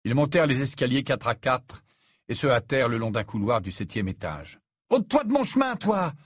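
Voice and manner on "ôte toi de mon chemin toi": high, angry snap; raised-pitch irate command; barked order. A narrator's reading. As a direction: bark at someone to move. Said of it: "aboya Ron".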